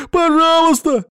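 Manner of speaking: very high, loud begging scream; desperate pleading shout. A narrator's reading. Captive in the pit screaming please at Mamuka. Captive begs for his life.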